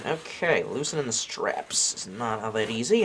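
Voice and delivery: a hint of an accidental Australian accent. Real, not acted. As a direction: lightly slip into an Australian accent. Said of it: "all of a sudden adopted an Australian accent".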